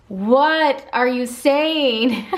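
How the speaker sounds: very slow, drawn-out disbelief; mock bafflement. Vlogger imitating viewers puzzled by her accent, mock bafflement. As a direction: stretch it out like a baffled listener.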